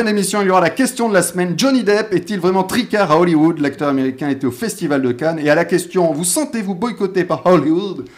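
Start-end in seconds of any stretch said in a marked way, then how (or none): 6.1-8.1 put-on light English-accented French, a bit slow; mock English accent. Host jokingly quoting a reporter in an English accent. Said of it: "C'est mon petit accent anglais".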